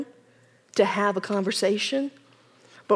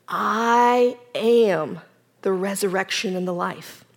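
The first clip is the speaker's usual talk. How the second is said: gentle; 3 semitones lower, slower than usual. Acted. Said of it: "Jesus said very gently".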